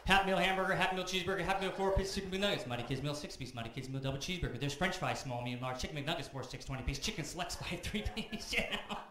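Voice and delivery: building from list to loud, high rant; getting angry. Acted. Comic reciting the whole menu, growing loud and furious. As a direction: reel off the menu, rising into a yell. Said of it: "Just getting angry".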